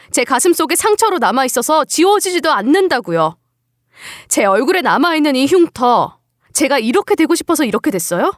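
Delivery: indignant talking back; a mildly angry, aggrieved protest; defiant hurt. Acted. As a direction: challenge her with wounded questions. Daughter-in-law argues back, hurt.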